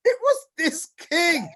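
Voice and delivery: booming it out with a laugh; laughing shout. Real, not acted. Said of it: "laugh shout".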